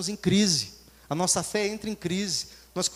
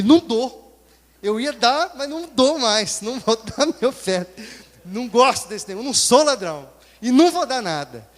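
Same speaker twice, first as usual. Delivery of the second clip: angry shouting refusal; 3 semitones higher, 10 dB louder than usual. Retold or imitated. Man yelling back at the worker, refusing to give, furious. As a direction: shout him down, I'm not giving.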